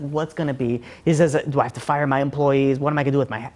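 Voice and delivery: low, softened, hopeless questioning; mock despair. Ruined man alone on a park bench, crying, subdued despair. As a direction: lightly imitate a distraught man, voice sunk low. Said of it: "and he's crying".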